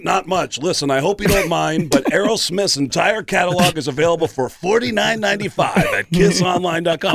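a hint of a rock star pitching; light rock-star voice. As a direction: sell the catalog as the rock star. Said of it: "That's how we communicate".

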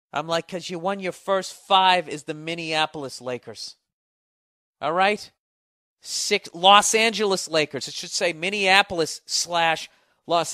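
telling off the Foot Locker clerk, loud and heated; indignant rant. Retold or imitated. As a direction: rant at the clerk about Laker titles.

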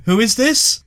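a hint of a suspicious neighbour; Indian man voice. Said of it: "a little Indian man's voice going".

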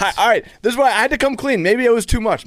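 high, loud sheepish laugh through the words; embarrassed laugh. Real, not acted. Laughing at his own confession.

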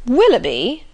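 loud, surprised cry of the name; hearty surprised cry; cried out. Acted. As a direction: exclaim the name, startled and pleased. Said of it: "cried Sir John".

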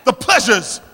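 full-voiced sermon delivery, key words stretched and punched; impassioned preaching. Real, not acted. Preacher telling the congregation why the harvest perished, impassioned and forceful. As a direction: preach it out, driving each phrase home.

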